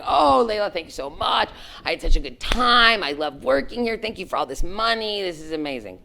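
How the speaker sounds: high, bubbly gushing gratitude; gushing thanks. Retold or imitated. Employee thanking her boss for bonus, high gushing. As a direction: gush like a thrilled employee.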